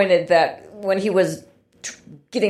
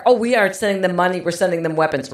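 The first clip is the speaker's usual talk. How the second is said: sarcastic mock quote; 4 semitones lower, faster than usual. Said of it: "that is just so sophomoric".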